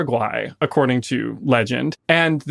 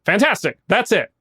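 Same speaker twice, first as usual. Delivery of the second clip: higher-pitched pleased exclamation; delighted director; 7 semitones higher than usual. Acted. Director approving the writer's ending, raised delighted voice. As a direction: pounce on it, thrilled and decisive. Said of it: "And Stewart just goes".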